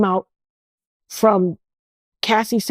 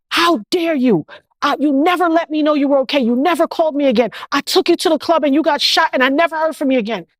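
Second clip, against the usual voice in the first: imitating angry friend; 4 semitones higher, faster than usual. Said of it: "She was angry with me".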